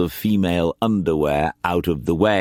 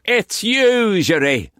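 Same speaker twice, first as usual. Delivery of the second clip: Quance voice; 13 semitones higher than usual. A narrator's reading.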